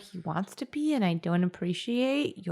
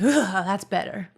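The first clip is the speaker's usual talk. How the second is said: drawn-out relieved groan; a slow sigh of relief; 4 dB louder, slower than usual. Acted. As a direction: let out a mildly acted "ugh" of relief. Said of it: "immediately is just like".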